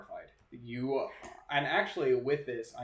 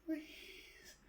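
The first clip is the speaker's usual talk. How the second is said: high, thin whispered begging; eerie breathy plea in a high voice; pained ghostly plea; 11 dB quieter than usual. Acted. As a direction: beg faintly, as a tormented ghost. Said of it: "she's in a great amount of pain".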